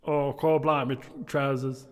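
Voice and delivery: loud, high mock Cockney; hammed-up Cockney. Actor proving his Cockney after criticism, hammed-up Cockney. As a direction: overdo the Cockney exclamations. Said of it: "Maybe try Cockney, Tony".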